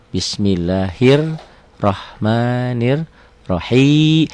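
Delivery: drawn out, chanted bismillah; slow Quran recitation. Shown as a demonstration. Teacher demonstrates reading for students, slow chant. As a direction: recite it slowly, stretching the long vowels. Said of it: "Hi-nya matobi'i".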